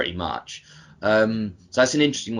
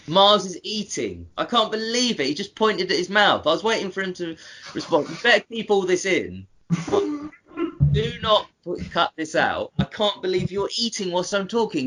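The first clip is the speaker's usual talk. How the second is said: higher, playful indignant teasing; mock outrage; 7 semitones higher than usual. Real, not acted. Teasing the co-host for eating on air, mock outrage. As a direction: pretend to be scandalised, laughing at him.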